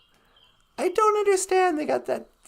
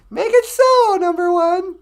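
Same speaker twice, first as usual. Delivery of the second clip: starship captain command; 4 semitones higher, 7 dB louder than usual. Pretend.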